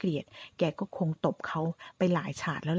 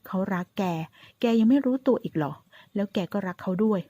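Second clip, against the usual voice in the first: excited insisting; 3 semitones higher than usual. Acted. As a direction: push it like she can't believe her friend. Friend excitedly insists he loves her.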